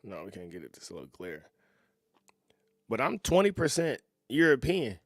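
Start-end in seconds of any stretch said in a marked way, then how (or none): none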